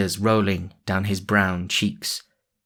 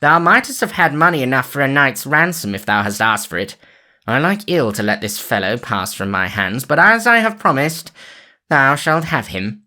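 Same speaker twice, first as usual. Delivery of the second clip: cried out; 5 semitones higher, 5 dB louder than usual. A narrator's reading. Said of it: "cried the sheriff".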